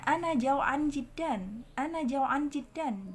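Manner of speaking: "Ana jau'an jiddan" slow, final n left vowelless; sukun ending. Shown as a demonstration. Teacher demonstrates spoken Arabic endings, slow with sukun. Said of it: "kita baca sukun aja".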